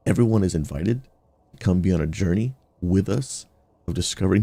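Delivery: earnest sermon-style invitation, lifting on everyone; preaching pitch. Acted. Streamer inviting viewers to the gamer church, preaching. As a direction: preach welcome to all gamers.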